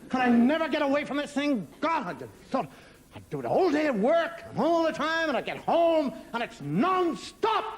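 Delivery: mock exasperated rant, stressed words swelling. Man sick of the phone ringing at home, exasperated. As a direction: moan it in comic despair at never escaping.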